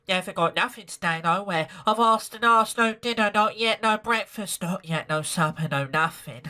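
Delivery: put-on raspy cockney child pleading; cockney beggar girl. Beggar girl telling Sarah she's starving, cockney. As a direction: beg in a rough London street voice. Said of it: "how I'm doing this voice".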